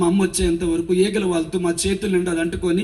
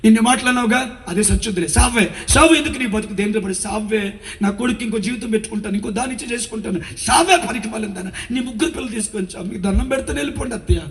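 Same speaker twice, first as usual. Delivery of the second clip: high, scolding tirade, fast in places; a retold, raised-voice berating; abusive mother-in-law; 5 semitones higher than usual. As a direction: spit the insults at the daughter-in-law.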